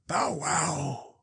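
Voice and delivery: small, high cowed dog bark; a beaten dog whimpering bow wow. A narrator's reading. The abashed fire dog slinks off, a cowed high bark. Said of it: "in a cowed voice".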